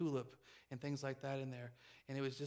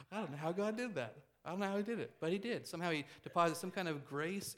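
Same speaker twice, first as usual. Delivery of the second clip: amazed; 4 semitones higher, 4 dB louder than usual. Real, not acted. Marvelling after a laugh.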